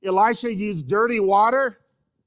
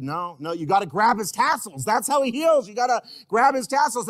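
insistent healed woman; 3 semitones higher, 3 dB louder than usual. Acted. Healed woman insists on her method.

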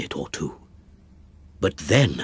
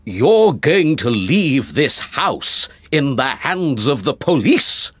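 angry cry; 4 semitones higher, 3 dB louder than usual. Acted. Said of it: "I cried".

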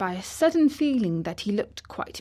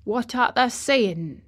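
slow, irritated question; a touch of grumpy impatience from an old gardener; mildly testy Yorkshire gardener; testily; 4 semitones higher, 4 dB louder than usual. Acted. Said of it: "rather testily".

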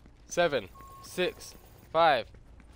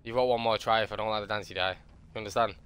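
low, softer pretend captor voice; mock menacing threat; 6 semitones lower, 4 dB quieter than usual. Captor warning a player to dance, low menace. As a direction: drop low and threaten, play-acting.

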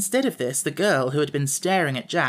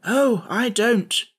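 slow, unruffled reply, higher-pitched; calm; 8 semitones higher, 4 dB louder, much slower than usual. A narrator's reading. Scarecrow answering Jack's protest, calmly. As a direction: reassure without any hurry. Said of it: "answered the Scarecrow calmly".

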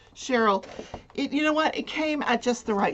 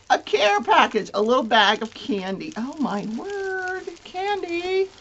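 excited; 7 semitones higher, 3 dB louder than usual. Real, not acted. Delighted unboxing candy.

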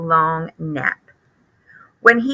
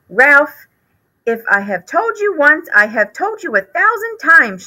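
higher, fretful mother's scolding; scolding mother mouse; 7 semitones higher than usual. Acted. Mother mouse scolding her son Ralph, higher and fretful. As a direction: nag like a worried mother mouse.

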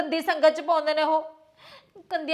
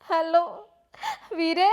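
tearful phone greeting to a brother; weepy, halting hello; crying. Acted. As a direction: answer through tears. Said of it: "ਤੂੰ ਰੋ ਕਿਉਂ ਰਹੀ ਹੈ".

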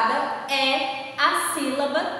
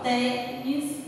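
slow tênis, drawing out tê; stress on TÊ; 3 dB quieter than usual. Shown as a demonstration. Teacher slowing tênis down for pupils, tê stressed. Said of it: "O T é a sílaba mais forte".

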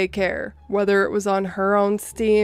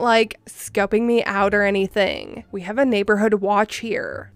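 put-on Valley Girl voice. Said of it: "a somewhat condescending Valley Girl-like accent".

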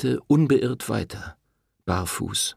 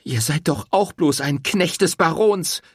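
high, loud scornful call; woman scorning the priest; contemptuous; 9 semitones higher, 4 dB louder than usual. A narrator's reading. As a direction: spit out the insult. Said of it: "rief sie verächtlich".

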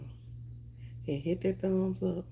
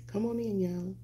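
high, drawn-out come-on-in call; calling out welcome; 8 semitones higher, slower than usual. Real, not acted. Streamer welcoming viewers in, calling out high. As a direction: usher everyone in with a lilting, stretched call.

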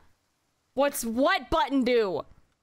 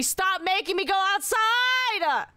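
frustrated shout; 5 semitones higher than usual. Real, not acted. Yelling at chat controlling game.

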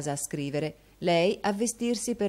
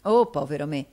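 a louder cry of dismay, lightly voiced; strong annoyance; 6 dB louder than usual. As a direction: groan it out as if truly put out. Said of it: "con aria di viva contrarietà".

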